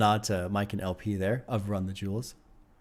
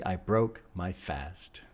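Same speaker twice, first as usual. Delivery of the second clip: breathy whisper, slow and hushed; whispered lyric; 5 semitones lower, 7 dB quieter, much slower than usual. Real, not acted. Reviewer reciting the raunchy lyric to himself, slow whisper. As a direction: murmur the line to yourself, savoring it.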